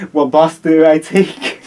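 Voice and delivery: put-on loud, slow Italian-accented question. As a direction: ask loudly like a lost Italian. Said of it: "Listen to that Italian accent".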